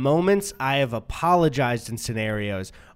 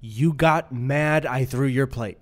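mock sarcastic apology; slower than usual. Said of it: "You're doing the thing".

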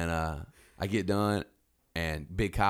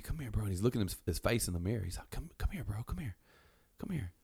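put-on drunk buddy calling; 2 semitones higher, 5 dB quieter than usual. Drunk dude calling Canyon over.

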